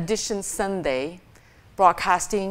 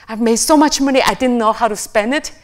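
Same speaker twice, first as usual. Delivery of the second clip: boastful rich parent; 3 semitones higher, 5 dB louder, faster than usual. Retold or imitated. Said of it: "this parent was counting his money".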